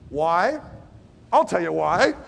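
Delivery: mock threat from an angry father; stern parent. Stage two parent to rebelling teen, mild mock threat. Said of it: "they'll be saying".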